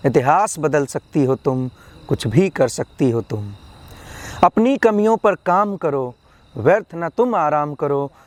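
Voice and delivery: measured, rhyming poetry delivery; motivational poem recitation. Acted. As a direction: recite to rouse the listener, falling on each refrain.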